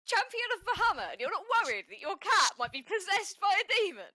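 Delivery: high-pitched, loud disbelief; worked-up in-character outburst, high and forceful; exasperated protest. Acted. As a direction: argue incredulously, pitch leaping up. Acted quarrel over possessed cat.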